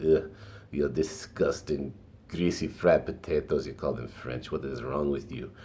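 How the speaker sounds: put-on an amateur, half-serious French accent, sneering at the fries; mock French accent. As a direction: play a snooty French person with a rough French accent. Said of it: "ac-, French accent, but I tried".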